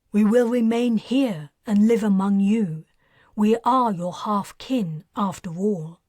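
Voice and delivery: calm, measured alien pronouncement; alien decree. Acted. Alien addressing the stranded humans, detached. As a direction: speak as an alien overlord, cool and detached.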